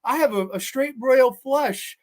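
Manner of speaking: a lightly voiced mummy hamming up his nerves; mock-nervous mummy. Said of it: "the mummy goes".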